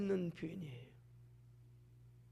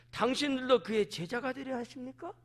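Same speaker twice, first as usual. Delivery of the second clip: sarcastic; 4 semitones higher than usual. Acted. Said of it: "비꼬는 거예요".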